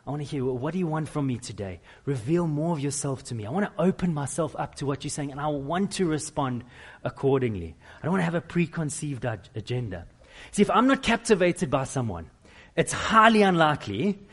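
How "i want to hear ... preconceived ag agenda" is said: earnest prayer. Retold or imitated. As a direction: pray it sincerely and gently. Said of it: "we come to His Word and we say".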